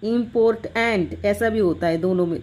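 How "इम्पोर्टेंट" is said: "इम्पोर्टेंट" split as im-port-ant; foreign English pronunciation. Shown as a demonstration. Teacher showing the foreign English variant, "इम्पोर्टेंट" as im-port-ant. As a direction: break "इम्पोर्टेंट" after the T, ant starting afresh. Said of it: "foreign English में जाओगे तो".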